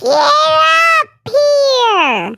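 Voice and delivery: high, loud call out; excited call. Real, not acted. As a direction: call her up, thrilled. Calling friend up to stream.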